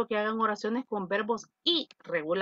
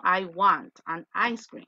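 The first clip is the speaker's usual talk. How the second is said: slow demo sentence; 4 semitones lower, slower than usual. Shown as a demonstration. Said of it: "Cuando yo quiero un sorbete, por ejemplo".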